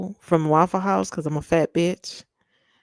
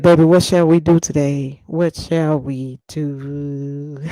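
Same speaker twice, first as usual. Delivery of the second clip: mock swooning; 3 semitones lower than usual. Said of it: "I'm gonna be like".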